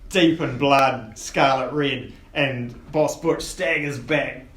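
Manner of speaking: dramatic game master scene-setting; game master narration. Acted. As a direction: narrate the gory blow to the players.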